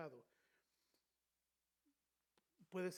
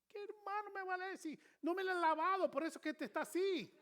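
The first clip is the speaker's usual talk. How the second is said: much higher, louder, laughing through the joke; laughing retort; 12 semitones higher, 8 dB louder than usual. Acted. Preacher joking to congregation about an unwashed hand, laughing. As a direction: toss off the punchline with a laugh. Joke answering the palm reader.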